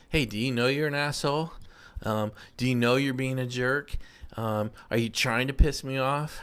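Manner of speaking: mock questions, voice lifting gradually toward the end; insults lightly lilted up as questions; question-like rise. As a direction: pose accusations as questions, rising on "asshole", "jerk" and "off". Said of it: "our voice goes up".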